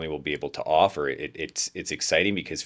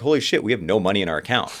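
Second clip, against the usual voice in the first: quick, louder rueful exclamation; mock dismay; 4 semitones higher, 5 dB louder, faster than usual. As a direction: blurt it as the bank account hits zero. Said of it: "Two years later".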